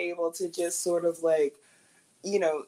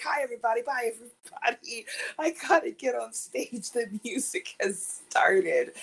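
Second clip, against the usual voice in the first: hurried breezy greeting; 8 semitones higher than usual. Retold or imitated. Rushing past the crowd.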